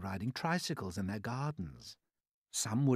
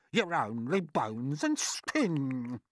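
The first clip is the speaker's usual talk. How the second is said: slow, slightly higher mocking retort; theatrical cry; 4 semitones higher, 4 dB louder, slower than usual. Aunt mocking her skinny sister, theatrical drawn-out cry. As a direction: stretch out the put-down in verse. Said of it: "Aunt Sponge cried out".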